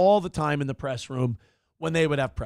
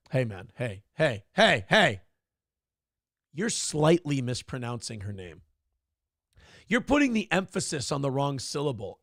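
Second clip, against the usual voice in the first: mocking Acosta; 3 semitones lower than usual. Host mimics Acosta correcting pronunciation.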